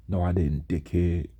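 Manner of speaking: understated, emotionless comeback; reply with no life in it; lifeless monotone. Retold or imitated. Teased student answering his accuser in math class, lifeless monotone. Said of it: "talk with life or emotion at all".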